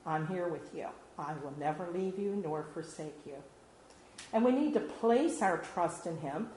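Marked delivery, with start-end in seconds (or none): 0.1-3.4 a soft, gentle voice for God; quietly, like a still small voice inside; hushed words of comfort; little voice. Retold or imitated. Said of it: "God says in that little voice".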